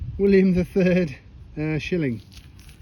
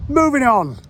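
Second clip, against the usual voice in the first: high, louder sing-song "moving on"; sing-song catchphrase; 7 semitones higher, 6 dB louder than usual. Acted. Leaving the chest cam nonsense behind, high sing-song. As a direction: sing it out as a sign-off.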